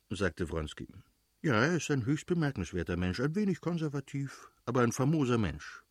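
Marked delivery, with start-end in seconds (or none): 1.4-5.8 lightly voiced sociable friend, animated pitch swings; hearty praise, lifting high midway; exuberant Oblonski, praising. Man vouches for his brother-in-law, lightly exuberant.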